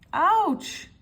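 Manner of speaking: tweaked again, loud high yelp; cry of pain. A narrator's reading. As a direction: squeal as the nose is tweaked. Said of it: "cried little Miss Naughty".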